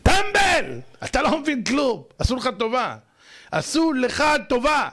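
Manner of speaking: high yelled opening, easing into scolding; exasperated berating. Acted. Preacher berates the offended listener.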